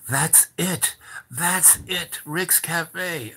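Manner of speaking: high, delighted voice of Madame; excited agreement. Retold or imitated. Madame jumps at the café suggestion, excited agreement. She seizes on his idea.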